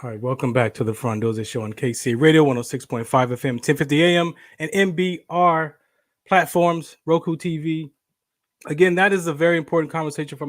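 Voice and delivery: punchy station ident read; radio show announcer. Acted. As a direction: welcome listeners back on air. Radio host reintroduces the show.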